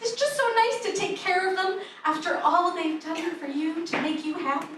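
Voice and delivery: high, sugary gushing; gushing lady. Retold or imitated. Salon worker praising caring for elders, high coo. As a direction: keep cooing sweetly. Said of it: "She's just like".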